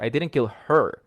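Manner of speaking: her given the weight with a falling end; stress on her. Shown as a demonstration. Teacher showing how stressing her changes the message, her stressed. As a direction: push the final word her. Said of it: "I'm stressing different words".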